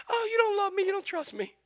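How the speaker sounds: whiny, high-pitched mock-weepy woman; Delilah. Delilah guilt-tripping Samson, mock-tearful high voice. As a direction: put on a high, pouting, tearful complaint. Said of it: "That's my Delilah for the day".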